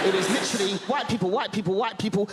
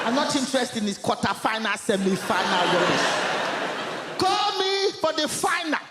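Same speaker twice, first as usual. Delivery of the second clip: dismissive mum. Retold or imitated. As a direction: brush it off like a proud mum. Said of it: "my mum's like".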